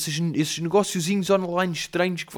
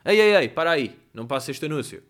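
influencer ad voice; 2 semitones higher, 5 dB louder than usual. Retold or imitated. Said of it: "assumem mesmo isso e fazem".

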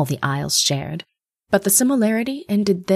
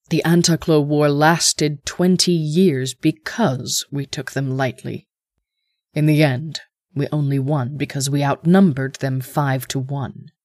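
cold rasping evil emperor; 3 semitones lower than usual. Acted. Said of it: "the Emperor said".

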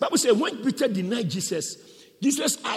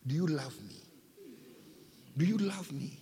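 soft, searching question; hushed, tender questioning; Jesus's gentle question; 4 semitones lower, 10 dB quieter than usual. Acted. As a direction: ask it quietly and intimately. Acts out Jesus gently questioning Peter.

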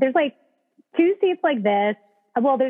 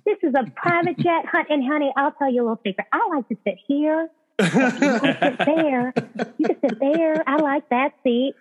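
put-on Southern accent; 5 semitones higher than usual. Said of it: "she was Southern".

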